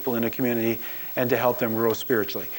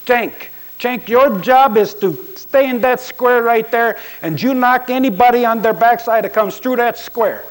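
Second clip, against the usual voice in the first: put-on loud, high Latino accent, barking at a player; a Latino coach commanding his lineman up close; 9 semitones higher, 6 dB louder than usual. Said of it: "he has this distinctive accent".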